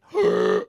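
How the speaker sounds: loud, high baffled noise; baffled gasp. Acted. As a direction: let out a startled, confused noise. Baffled reaction to Scottish speech.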